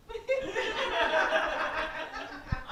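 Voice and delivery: high, drawn-out mock giggle; imitated laugh. In-laws baffled on the couch, imitated nervous laugh. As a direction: laugh like bewildered onlookers.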